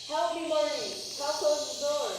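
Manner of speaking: loud, slow, straining call for help; shouting over a storm. Acted. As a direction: yell against the wind. Storm blows through the door.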